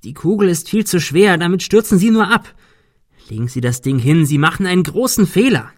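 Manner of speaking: imploring. A narrator's reading. Ben warns Arthur about the heavy ball, imploring. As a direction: plead hard to make him see sense. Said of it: "beschwor ihn Ben".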